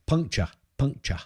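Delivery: "Puncture" said clearly as PUNK-chuh, twice; clarifying puncture. Shown as a demonstration. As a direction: repeat "Puncture" distinctly, no R at the end. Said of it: "you s-, a punch?".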